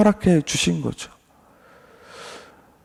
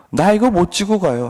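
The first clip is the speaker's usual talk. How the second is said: Job refusing; 4 semitones higher than usual. Acted. Job refuses to carry his cross, higher complaint. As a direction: push 이거 and 지고 up in protest. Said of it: "불평과 원망을 하고 있습니다".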